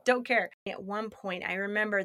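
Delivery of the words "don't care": defiant insistence. Retold or imitated. Retold defiant retort in quarrel.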